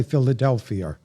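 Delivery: New York "Philadelphia" with an r-coloured ending; New Yorker accent. Shown as a demonstration. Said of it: "a New Yorker would say".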